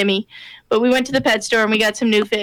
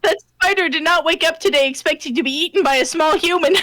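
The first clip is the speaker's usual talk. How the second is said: words strained through tearful laughter; laughing while talking; 4 semitones higher than usual. Real, not acted. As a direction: talk while crying with laughter. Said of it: "I'm crying from laughing so hard".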